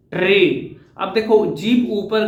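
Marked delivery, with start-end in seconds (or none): 0.1-0.8 ट्री with a trilled, tapped r; word demo with a rolled r; tree demo. Shown as a demonstration. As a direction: say ट्री with the tongue up behind the teeth. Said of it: "for example".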